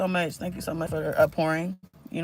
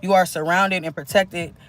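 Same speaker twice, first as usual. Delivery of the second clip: channeled message reading. Acted. Reads channeled messages to viewers.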